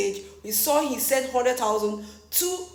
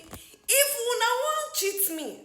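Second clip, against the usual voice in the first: imitating an aggrieved cry, easing down; imitated crying out; 4 semitones higher than usual. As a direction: retell his wounded complaint, lightly hammed-up. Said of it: "my guy is crying, he's crying out".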